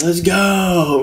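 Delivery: a rowdy party call, half imitated; imitating drunk yell. Retelling a drunk kid's shout at the party, mock yell. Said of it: "was, like, yelling".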